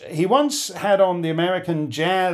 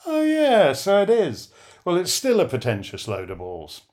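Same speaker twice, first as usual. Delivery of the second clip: surprised then dismissive; 4 semitones higher than usual. Retold or imitated. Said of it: "took a closer look ... and went".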